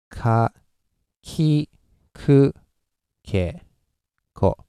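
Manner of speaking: ka, ki, ku, ke, ko one by one with pauses; pitch demonstration. Shown as a demonstration. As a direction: isolate each of ka, ki, ku, ke, ko on its own pitch. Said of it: "pitch is what we use".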